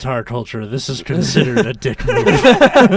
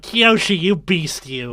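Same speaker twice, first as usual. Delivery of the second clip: flamboyant voice; slower than usual. Retold or imitated. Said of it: "Wan sounds like a gay guy".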